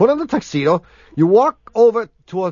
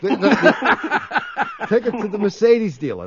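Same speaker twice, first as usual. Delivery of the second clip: laughing. Real, not acted. Laughing while giving car advice.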